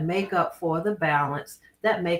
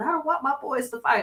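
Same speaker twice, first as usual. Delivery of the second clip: acted, high, frantic hysterical yelling; 8 semitones higher than usual. Retelling how the boys' mother reacted to the boxing, imitating hysterical yelling. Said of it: "she was hysterical. She was like yelling".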